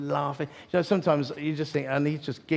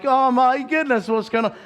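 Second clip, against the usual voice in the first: acted astonishment; 11 semitones higher, 7 dB louder than usual. Preacher stunned by the husband's request, loudly amazed. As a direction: exclaim in mock alarm, pitched right up.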